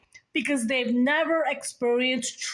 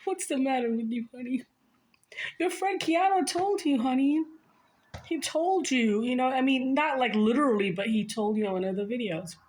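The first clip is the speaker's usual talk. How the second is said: Jesus; 5 semitones higher than usual. Pretend. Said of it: "Jesus, like".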